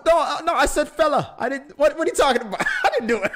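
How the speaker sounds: laughing protest. Real, not acted. Protesting through laughter at the teasing.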